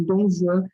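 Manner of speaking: Juan said "zhuan", with French J; French pronunciation. Shown as a demonstration. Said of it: "a pronúncia do J em francês".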